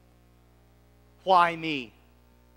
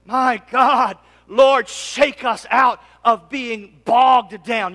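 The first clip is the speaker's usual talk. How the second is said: drawn-out, slow plea; slow prayer; 5 dB louder, much slower than usual. Real, not acted. Pastor praying over the church, slow and earnest. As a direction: stretch every word to the Lord.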